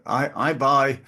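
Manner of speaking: put-on a light, self-conscious go at a Chinese accent; a hint of a Chinese accent, not quite landed; friend's Chinese accent, lightly imitated; imitating a Chinese accent. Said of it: "he did talk like that with a Chinese accent".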